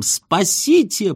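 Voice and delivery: high, drawn-out cry for help; understated, stretched yelp of alarm; mild cry. A narrator's reading. Husband tearing up his ration card, crying out mildly. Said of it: "с криком".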